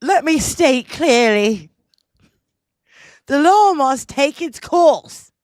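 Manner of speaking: mock-royal English accent read. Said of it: "It's a shitty English accent".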